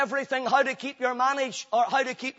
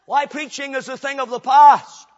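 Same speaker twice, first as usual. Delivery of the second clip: scoffing voice of a doubting churchgoer, louder at the end; mock objector; 5 dB louder than usual. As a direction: play the skeptic who waves preaching away. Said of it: "You say".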